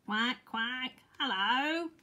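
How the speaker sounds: lightly voiced friendly duck; quacking duck. A narrator's reading. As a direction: quack a bright hello like a duck. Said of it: "quacked some ducks".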